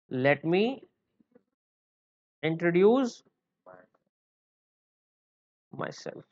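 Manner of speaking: softly dropping away on the last word; feed it slowly for students to repeat; slow dictation. Shown as a demonstration. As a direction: piece by piece with long gaps. Teacher breaks it up for class.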